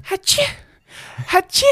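high squeaky little sneeze Hatschi; cute fake sneeze. Shown as a demonstration. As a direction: sneeze like a tiny mouse. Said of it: "Ich bin die süße Niesmaus".

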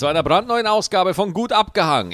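formal broadcast welcome, read like the evening news; news anchor voice. Real, not acted. Host greeting listeners in a mock news anchor voice. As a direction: open the show like a news presenter. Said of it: "Ich höre mich an wie ein Nachrichtenmoderator".

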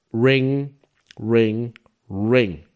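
gesprochenes Klingeln, jedes Mal etwas tiefer; nachgeahmtes Telefonklingeln. Retold or imitated. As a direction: ein Telefon mit Worten nachmachen, einzeln abgesetzt. Ahmt klingelndes Telefon nach. (nachgemachtes Klingeln)

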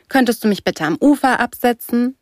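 high, prim put-on request; affected. A narrator's reading. Girl asking the surfer for the shore, affected. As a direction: ask with exaggerated, affected politeness. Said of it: "sagte ich affektiert".

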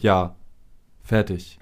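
ordinary delivery

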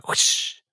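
gehauchtes Zischen als Strike-Sound; Strike-Geräusch. Pretend. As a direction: stimmlos gezischter Soundeffekt. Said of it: "Ich wollte nur noch mal das Geräusch machen". (gehauchter Strike-Sound)

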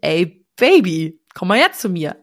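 lightly flirtatious; flirty call. Shown as a demonstration. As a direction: lure him over playfully. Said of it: "dann sage ich".

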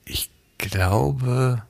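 whispered, half asleep; sleepy whisper. Real, not acted. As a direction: breathe it out drowsily. Sleepy answer to a question. (flüsternd, schläfrig)

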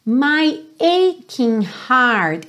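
"aching" as "EI-king", slowly; hard k in "aching". Shown as a demonstration. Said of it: "esse C H I vai ter um som correspondente ao Q U". ("aching" com som de k)

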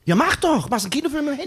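high-pitched, impatient challenge; heated retort. Acted. Acted escalating quarrel between comedians.

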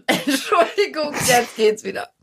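hustend, nach Luft ringend; verschluckt. Real, not acted. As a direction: Stimme noch belegt vom Husten. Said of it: "Ich hab mich verschluckt". (verschluckt und hüstelnd)

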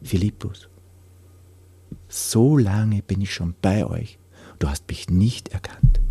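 understated sadness, with a long pause after the name; sad. Retold or imitated. Jesus answers Philippus, who has not recognised him, sadly. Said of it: "Jesus sagt dann ganz traurig".

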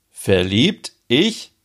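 taken aback, echo it in disbelief; astonished. Acted. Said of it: "Ole antwortet erstaunt". (erstaunt nachfragen)

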